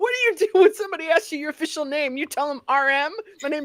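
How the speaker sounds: shrill, very high, loud scolding yell. Retelling how one bandmate reacted to the name another bandmate put on his membership, imitating him yelling. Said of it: "just yelling at him like".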